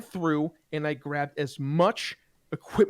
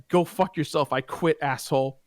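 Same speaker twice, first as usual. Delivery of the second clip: imitated defiant quitting, voice slightly raised; retold angry retort; 3 dB louder than usual. Employee quits to manager's face, retold angry retort. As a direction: throw the insult back at the boss.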